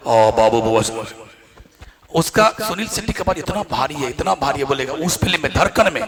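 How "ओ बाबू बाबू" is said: Sunil Shetty impression. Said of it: "उधर से आएगा सुनील".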